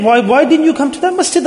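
stern questioning. Acted. Allah questions the one who stayed away, stern questioning. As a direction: press the repeated why.

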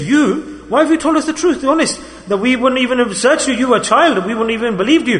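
high, amazed disbelief with a laugh; astonished thieves. Retold or imitated. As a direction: marvel at the boy's honesty. Thieves astonished by honest boy.

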